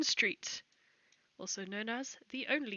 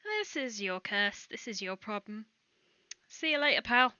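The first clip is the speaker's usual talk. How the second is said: cheerful NPC voice; 5 dB louder than usual. Acted. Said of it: "Bismuth is just gonna wave and say".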